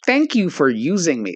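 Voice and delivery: a hint of an American bin voice; lightly imitated American-accented announcement; annoying American accent. Man mimics the bin he finds annoying, American accent. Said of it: "Why is it an American accent?".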